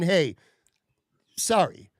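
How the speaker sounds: imitating a sincere, simple sorry; hey, a pause, then a sincere sorry; genuine apology. Manager owning up to a let-down customer, imitated genuine apology. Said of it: "A, a legit, genuine".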